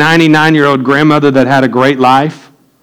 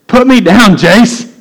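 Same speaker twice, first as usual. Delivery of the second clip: higher, slightly raised call to be put down; mock protest; 6 semitones higher, 3 dB louder, slower than usual. Big man lifted by his friend, protesting loudly. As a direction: call out like you've been hoisted off your feet.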